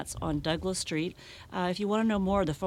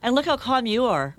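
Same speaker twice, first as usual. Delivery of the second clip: bright teasing laugh; 7 semitones higher, 9 dB louder than usual. Real, not acted. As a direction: laugh as you tease. Host laughs, teasing the guest.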